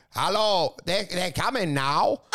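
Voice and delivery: slow mock Russian accent; lightly hammed-up Russian accent; comical Russian accent. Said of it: "It's all comical to you now".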